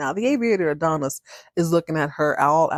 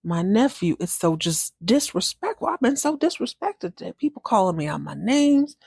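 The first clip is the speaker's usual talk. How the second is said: indignant rant; 3 semitones higher than usual. Retold or imitated. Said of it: "She storms back into the house like".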